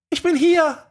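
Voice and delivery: moaning. A narrator's reading. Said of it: "wiederholte er stöhnend".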